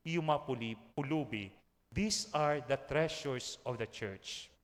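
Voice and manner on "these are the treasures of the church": saint's solemn words. Retold or imitated. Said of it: "Sabi niya".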